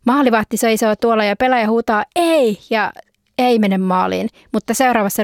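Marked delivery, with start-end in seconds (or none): 2.2-2.6 dismayed shout. Acted. Player shouts at miss.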